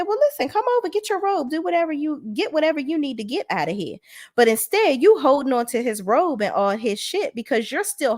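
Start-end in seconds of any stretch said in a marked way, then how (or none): 0.0-4.0 high, sing-song mock advice, much higher than usual; lightly acted sisterly advice in a high voice. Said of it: "you should have said".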